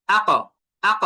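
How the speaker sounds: আক with a hard, echoing release of final q; struck qalqalah. Shown as a demonstration. Teacher shows students how to strike qaf, final q of আক jolted. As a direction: hit the q at the end of আক and let it bounce. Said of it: "একদম আঘাত করে উচ্চারণটা নিয়ে আসতে হবে".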